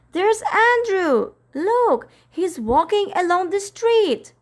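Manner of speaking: put-on high, eager child's voice; eager boy. Michael shows Miss Lark her dog, high and eager. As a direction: point him out, all eagerness.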